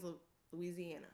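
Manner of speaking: ordinary talk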